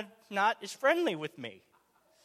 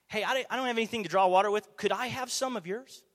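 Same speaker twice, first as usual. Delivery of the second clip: friendly request. Retold or imitated. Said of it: "Maybe something like that".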